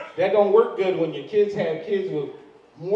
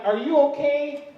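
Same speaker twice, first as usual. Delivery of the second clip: concerned lady; 7 semitones higher than usual. Retold or imitated. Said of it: "Some lady walked up to him like".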